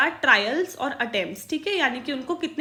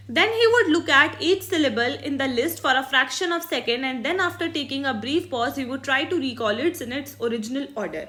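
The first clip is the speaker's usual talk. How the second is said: slow, careful read-aloud of a textbook line; dictating from the book; much slower than usual. Shown as a demonstration. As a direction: read each word out slowly for the class. Reads textbook English aloud.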